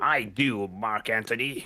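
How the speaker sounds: slimy-sounding voice. Reading the servant's lines in a play reading: slimy voice. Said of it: "he's gonna have a slimy voice".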